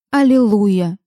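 mildly exclaimed wisecrack; wry quip. A narrator's reading. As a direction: toss it out as a witty jab. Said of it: "сострила Лиззи". (с лёгкой остротой)

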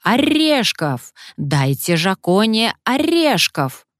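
high, slow squawking parrot; screeching parrot. Acted. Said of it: "попугай снова заорал".

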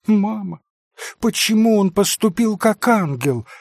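put-on a young girl asking pointedly; a thin voice questioning her mother; thin little voice. A narrator's reading. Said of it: "послышался опять голосок Лис".

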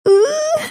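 high yelping howl; a sudden startled howl. A narrator's reading. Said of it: "взвыла". (резкий высокий вой)

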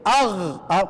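a throaty اغ from the back of the tongue; ghain sound demo. Shown as a demonstration. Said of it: "لما تيجي تقول ايه؟".

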